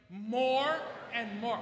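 slow, drawn out, with some enthusiasm; with vigor. Shown as a demonstration. Pastor coaching the church to say it with vigor and enthusiasm. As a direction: say it like Christmas is starting. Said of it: "Say it with vigor and enthusiasm".

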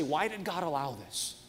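a hint of a whiny child; whiny kid asking why. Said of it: "we shouldn't say".

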